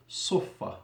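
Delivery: sufa with emphatic s and doubled f; Arabic pronunciation. Shown as a demonstration. Teacher spelling out the Arabic source word, sufa with doubled f. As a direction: hold the f in sufa, short first vowel. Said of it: "fa mushaddada".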